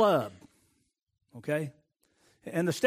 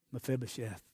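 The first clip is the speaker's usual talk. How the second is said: soft call; 6 semitones lower, 11 dB quieter than usual. Acted. Tender calling by name again.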